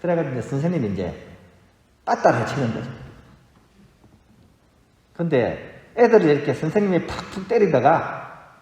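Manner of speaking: normal talking voice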